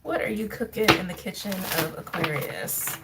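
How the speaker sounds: a hint of playful Southern US accent. Real, not acted. Card reader asking Aquarius what they're cooking, lightly Southern accent. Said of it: "I don't know why I got Southern for a second".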